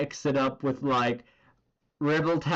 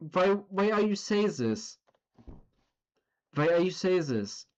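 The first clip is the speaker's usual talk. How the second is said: put-on German accent; 5 semitones higher than usual. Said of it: "the German dude".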